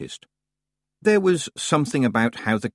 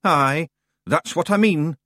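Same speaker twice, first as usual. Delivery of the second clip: sourly; 7 semitones higher, 4 dB louder, slower than usual. A narrator's reading. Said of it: "said Rob sourly".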